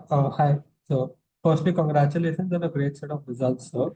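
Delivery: clearer, fuller-volume real congratulations; speaking up. Real, not acted. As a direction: speak up to be heard on the line. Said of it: "Speak louder".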